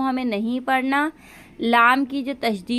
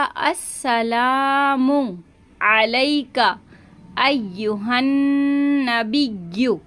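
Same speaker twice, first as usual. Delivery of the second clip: slow recitation; much slower than usual. Shown as a demonstration. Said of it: "तशदीद को जाहिर करेंगे".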